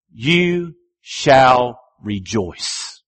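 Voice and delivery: "You shall rejoice" drawn out very slowly, each word weighted; slow solemn emphasis. Shown as a demonstration. Preacher stressing the repeated phrase, slow and weighty. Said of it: "phrases that you see repeated".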